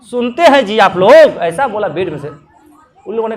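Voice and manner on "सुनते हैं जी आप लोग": shouting for tea. Retold or imitated. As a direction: bellow for the morning tea, annoyed. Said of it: "चिल्ला रहा है".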